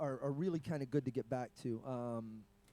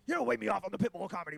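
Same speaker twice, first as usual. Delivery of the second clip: imitating a bristling comic, somewhat louder; mock indignant comic; 3 semitones higher, 4 dB louder, faster than usual. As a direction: puff up like an offended headliner. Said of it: "and he goes".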